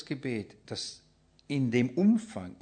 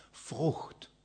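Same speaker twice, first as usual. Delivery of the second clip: whisper; 6 dB quieter than usual. Acted. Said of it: "whispered answer".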